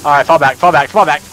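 shouting orders over battle. Real, not acted. Calling out in fight.

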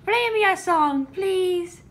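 high, bright pet praise; excited praising pet. Real, not acted. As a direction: gush over the cat's playing. Cat played piano, excited praise.

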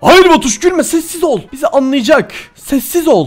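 loud, high laughing telling-off; half-laughing scold. Real, not acted. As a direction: scold a giggling friend while laughing.

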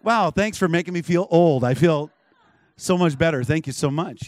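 loud mock gratitude; wry, emphatic thank-you; sarcastic thanks. Mock thanks for feeling old.

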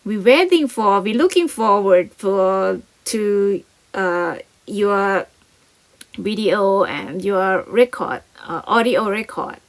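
slow, loud read-aloud; slow model reading. Shown as a demonstration. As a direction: read it slowly so learners follow. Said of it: "reads English script slowly".

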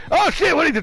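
high-pitched startled outburst; startled alarm. Real, not acted. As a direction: blurt it in alarm. Killer suddenly attacks.

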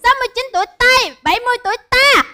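rapid recital through a thick tongue; thick-tongued. Real, not acted. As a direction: rattle it off with a clumsy big tongue. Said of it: "cái lưỡi bự mà ham nói".

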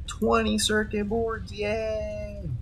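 high squeaky little cheer; mock cheer. Real, not acted. Cheering at crafting result.

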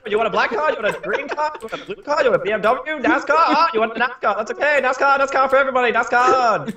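car salesman voice. Acted. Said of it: "eccentric car salesman trying to sell".

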